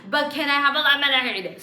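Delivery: loud, pushy, impatient demand; whiny demand. Retold or imitated. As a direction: demand it again and again like a pest. Nagging customer, loud.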